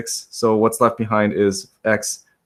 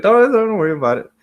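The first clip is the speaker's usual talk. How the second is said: higher-pitched quoted reassurance; imitating a latecomer; 9 semitones higher, 3 dB louder than usual. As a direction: quote someone lightly waving it off, higher. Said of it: "Sorry, you're like".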